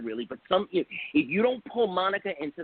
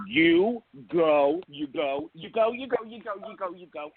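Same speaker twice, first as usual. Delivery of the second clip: hyped cheering; 4 semitones higher than usual. Real, not acted. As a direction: cheer them on, pitch up, then fade. Hypes up the show before reveal.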